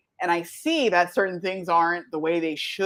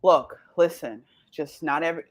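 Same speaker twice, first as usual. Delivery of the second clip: measured talking-down of oneself; steady yourself, phrase by phrase; woosah self-calming; 3 semitones lower than usual. Acted. Woman reasoning with herself before walking in, mildly self-calming. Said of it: "I literally have a woosah moment".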